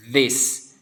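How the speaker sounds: "this" with a buzzing th; voiced th. Shown as a demonstration. Teacher demonstrating the th sound, careful "this". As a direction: model "this" with tongue between teeth. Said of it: "cara mengucapkannya".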